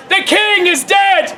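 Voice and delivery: stagey noble's shout. Acted. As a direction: proclaim it to the hall. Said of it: "the nobles of Scotland shout".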